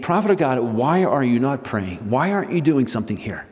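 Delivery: scolding a prophet who won't pray; rebuking captain. Retold or imitated. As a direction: demand an answer from him.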